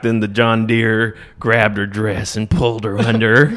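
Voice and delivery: lightly imitated country balladeer; mock-tragic country storyteller; a hint of dark, poetic country singer; a famous country singer. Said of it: "sounds exactly like a famous country singer".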